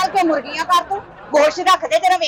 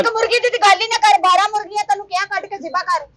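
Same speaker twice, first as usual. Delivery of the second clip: raised-voice demand. Acted. Customer argues with the butcher, raised and insistent. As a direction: push your order over his voice.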